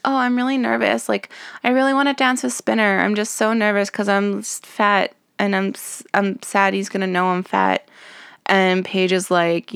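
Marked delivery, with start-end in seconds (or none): 0.0-7.9 Terry impression. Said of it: "And Terry's like".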